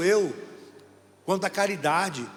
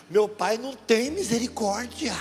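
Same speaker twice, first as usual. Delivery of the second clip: put-on child's voice; 6 semitones higher, slower than usual.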